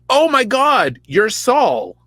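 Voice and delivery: high, loud startled witch; the witch recognizing Saul, high and loud; shrieking witch. Retold or imitated. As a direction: squeal it out in a high put-on voice.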